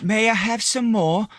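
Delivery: put-on high, pleading little-boy voice; Tiny Tim voice. Teasing his cohost after a bad accent, high mock child voice. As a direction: beg sweetly like a small Dickens orphan. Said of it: "It sounded more like Tiny Tim".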